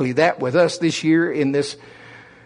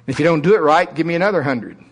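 drill sergeant; faster than usual. Retold or imitated. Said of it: "that drill instructor".

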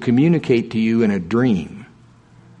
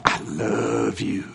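slow, much softer, deadpan I love you; flat and soft; 7 dB quieter, much slower than usual. Shown as a demonstration. A preacher demoing a flat, grudging I love you, soft and slow. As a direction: say it drained and unconvinced.

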